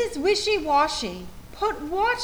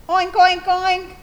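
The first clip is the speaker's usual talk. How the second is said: laughing oink; 6 semitones higher, 5 dB louder than usual. Acted. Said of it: "The animals laughed their muddy laughs".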